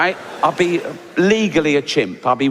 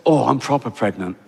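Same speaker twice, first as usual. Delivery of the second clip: giraffe voice; 3 semitones lower than usual. Retold or imitated. Giraffe speaks.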